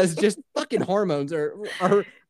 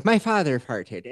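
Irish accent; 5 semitones lower than usual. Shown as a demonstration. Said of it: "to trigger the Irish accent".

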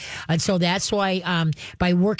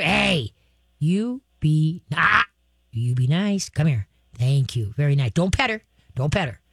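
firm command demo; 3 semitones lower than usual. Shown as a demonstration. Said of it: "you be thunder".

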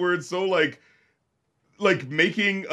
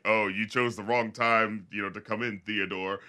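lightly voiced menacing gunman; 7 semitones lower, 8 dB quieter than usual. Retelling the gunman's ambush line.

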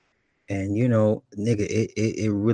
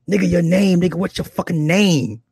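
loud, high, impatient demand; gruff demand; 8 semitones higher, 5 dB louder than usual. Retold or imitated. Rough woman to confused man at party, impatient gruff demand. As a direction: imitate her demanding an answer loudly. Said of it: "she was just mad gruff".

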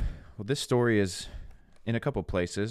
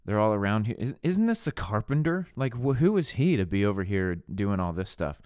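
imitating affronted townsfolk, higher on the key questions; offended disbelief; 3 semitones higher than usual. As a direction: scoff in disbelief at the local carpenter. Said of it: "they're offended".

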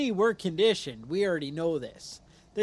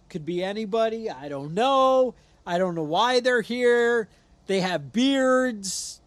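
mock excuse-making; 4 semitones higher, 5 dB louder than usual. Mocks district attorney's vague excuses.

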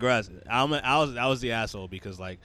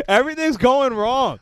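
exasperated; 13 semitones higher, 8 dB louder than usual. Real, not acted. Exasperated after hitting elbow.

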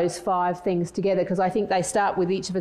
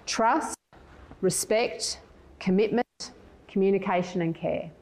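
quicker first run-through; slower than usual. Shown as a demonstration. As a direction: list them briskly with short gaps. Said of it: "I'll say them quickly".

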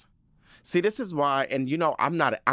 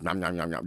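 munching noise; 5 semitones lower than usual. Retold or imitated. Imitates bear eating noisily.

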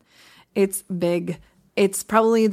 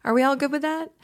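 light rising check-in; mild questioning uptalk; consensus upswing; 5 semitones higher than usual. Shown as a demonstration. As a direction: lift the end as an invitation. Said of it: "we use an upswing".

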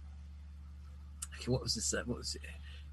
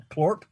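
plorp sound; 3 dB louder than usual. Shown as a demonstration. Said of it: "Plorp is the sound".

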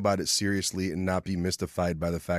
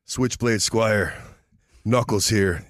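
wrestling promo. Pretend. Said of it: "let's cut a promo".

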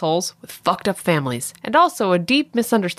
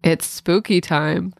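sarcastic; slower than usual. Shown as a demonstration. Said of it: "doesn't make it sound sarcastic".

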